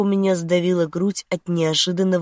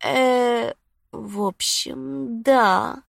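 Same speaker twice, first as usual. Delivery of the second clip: higher woman's voice, haltingly drawn out; flustered mumble; 6 semitones higher, much slower than usual. A narrator's reading. Lucy answers Felix's dirty talk, flustered mumble. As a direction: stall in a high, embarrassed voice. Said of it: "пробормотала Люси".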